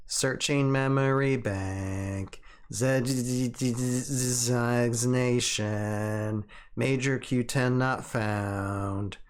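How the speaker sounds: slow, even machine voice; drawn-out robot search readout. Pretend. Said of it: "You gotta do the robot voice".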